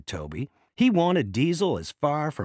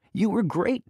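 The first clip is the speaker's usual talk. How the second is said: high bright praise; praising; 9 semitones higher, 4 dB louder than usual. A narrator's reading. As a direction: cheer Diesel on warmly. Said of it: "Thomas said".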